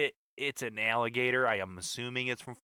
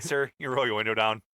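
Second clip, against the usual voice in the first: put-on Florida accent; 3 dB louder than usual. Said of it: "That's my Florida accent".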